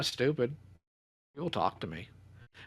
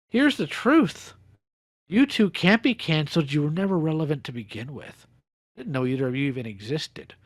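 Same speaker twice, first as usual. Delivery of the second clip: loud; 6 semitones higher, 6 dB louder than usual. Real, not acted. Confrontation, calling them out.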